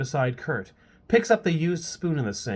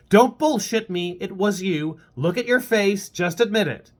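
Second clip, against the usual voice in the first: taunting; 6 semitones higher, 3 dB louder than usual. Acted. Hannah needles Kurt.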